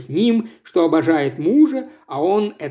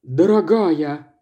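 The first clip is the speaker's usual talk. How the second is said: slow, drawn-out begging "Дорогая"; desperate plea; slower than usual. Acted. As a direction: beg her, stretching "Дорогая" out. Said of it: "в отчаянии умолял Вейд".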